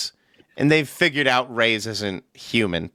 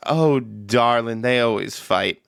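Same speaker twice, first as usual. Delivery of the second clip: put-on young lady voice. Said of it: "and the young lady says".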